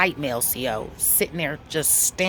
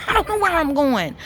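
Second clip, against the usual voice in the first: laughing through the words, higher and louder; 10 semitones higher, 5 dB louder than usual. Real, not acted. Telling the audience about the guard, laughing. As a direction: crack up while you say it. Laughing at her own confusion.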